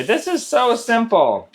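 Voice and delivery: put-on high, slow, unimpressed kid; negative. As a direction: say it like it's boring. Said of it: "a negative way".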